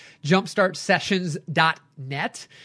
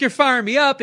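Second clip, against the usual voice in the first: excited driver quote; 6 semitones higher, 6 dB louder than usual. Retold or imitated. Driver fired up in car.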